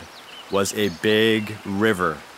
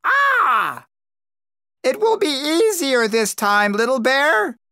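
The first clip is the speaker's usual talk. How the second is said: calling down; 13 semitones higher than usual. A narrator's reading. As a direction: call down from the rock top like a crow. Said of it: "said Crow".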